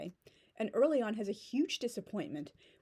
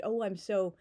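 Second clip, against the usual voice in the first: pretentious show-off. Pretend. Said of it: "trying to sound".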